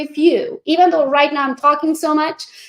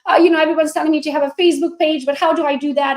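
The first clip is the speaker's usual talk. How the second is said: eager new agent; 3 semitones higher than usual. Retold or imitated. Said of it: "brand new agent who's like".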